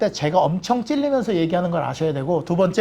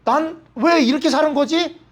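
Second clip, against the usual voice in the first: slow, high, dawning horror of a doomed man; higher and slowed, realizing too late; dismayed lost soul; 7 semitones higher, slower than usual. Retold or imitated. Lost people at the Second Coming, slow dismayed wail. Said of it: "그걸 보고".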